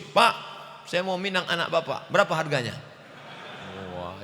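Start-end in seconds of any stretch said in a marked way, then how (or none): 0.0-2.7 high, cocky, laughing ask; brash suitor bargaining for a bride; mock rude suitor. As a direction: play the brash suitor lightly.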